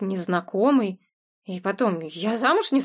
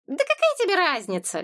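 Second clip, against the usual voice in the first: higher, sharp annoyed retort; 9 semitones higher than usual. A narrator's reading. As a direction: brush it off, irritated. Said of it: "рассердилась уже всерьёз".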